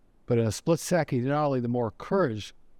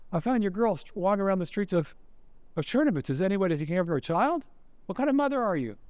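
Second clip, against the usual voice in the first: indignant scolding, pitched high; acted reproach; 5 semitones higher than usual. Nazi scolds the opera singer as a negligent mother, reproachful. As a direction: scold her, climbing higher to the last question.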